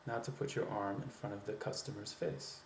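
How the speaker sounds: even American statement, settling down through "customer's face"; downward American inflection. Shown as a demonstration. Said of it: "a little bit more downward with your inflection".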